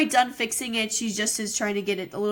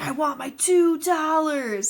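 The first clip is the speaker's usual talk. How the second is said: put-on slow, higher kid demand; paper boy voice; 6 semitones higher, 4 dB louder, slower than usual. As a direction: whine it like a pushy kid. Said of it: "he's like".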